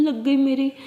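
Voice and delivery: whispered dismay to herself; whispered to herself on seeing the dent. Acted. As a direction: breathe it out, barely voiced. Sees damage to own car.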